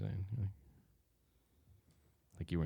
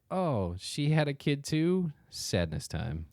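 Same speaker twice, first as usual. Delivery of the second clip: mocking sad girlfriend; 7 semitones higher, slower than usual. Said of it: "and she's like".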